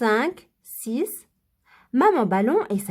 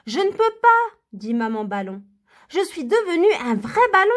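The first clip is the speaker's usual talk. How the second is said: voix de maman ballon; 5 semitones higher than usual. Acted.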